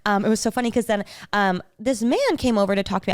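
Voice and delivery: ordinary delivery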